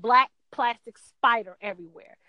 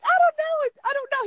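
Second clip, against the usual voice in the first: high panicked I-don't-know; 3 dB louder, faster than usual. Retold or imitated. Wife panicking over a spider, high panicked squeal. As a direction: squeal it, freaked out. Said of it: "And I'm like".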